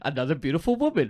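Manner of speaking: laughing through the words; amused, laugh-laced telling. Real, not acted. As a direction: let a chuckle run under it. Laughing while telling the story.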